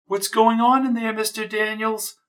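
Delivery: high, loud nosy question; loud high call. Acted. Nosy neighbor calls loudly into the apartment. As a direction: call out from the hallway. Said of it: "she asked loudly".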